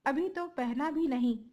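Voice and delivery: hammed-up crying over the coat; wailing. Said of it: "रोता हुआ".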